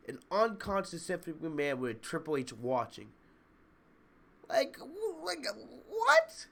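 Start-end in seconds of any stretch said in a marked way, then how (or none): 4.5-6.5 disbelieving what. Real, not acted. Disbelief at Orton's antics.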